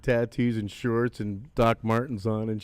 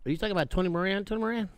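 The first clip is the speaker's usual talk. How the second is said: excited fan; 6 semitones higher, faster than usual. Retold or imitated. Retold excited fan on the phone.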